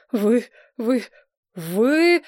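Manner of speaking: halting repeated "вы", rising; stammering ambassador, rising on the last. A narrator's reading. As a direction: stutter it out in shock. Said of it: "заикался он".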